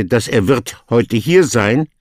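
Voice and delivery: wrong order read out as the mistake, wird placed before heute hier sein; teacher reading dass er wird heute hier sein as the wrong version; wrong word order. Shown as a demonstration. Teacher shows the student the wrong German word order. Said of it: "you will not say".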